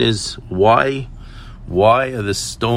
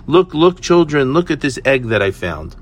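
higher, louder burst on the first words, easing off; calling children over; 5 semitones higher, 4 dB louder than usual. Retold or imitated. Mother calls her children over to show the egg, excited. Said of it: "she calls her children over".

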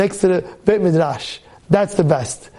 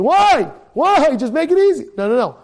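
ordinary talk, nothing marked

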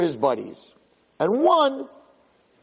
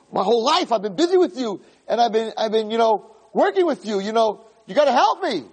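high, urgent begging; soul pleading with his money; desperate plea; 7 semitones higher than usual. Acted. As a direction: beg the money for help.

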